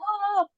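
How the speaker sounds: high, mild mock scream; high-pitched pretend cry of pain; retold scream. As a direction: imitate a pained scream without the volume. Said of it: "And I was screaming".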